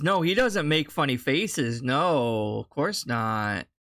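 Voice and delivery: dry mock agreement, dropping low at the end; sarcastic. Real, not acted. Reactor scoffs at streamer's claim about funny faces, sarcastic. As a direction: pretend to concede, with sinking pitch.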